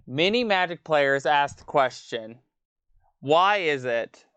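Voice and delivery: professor impression. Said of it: "my impersonation of the professor".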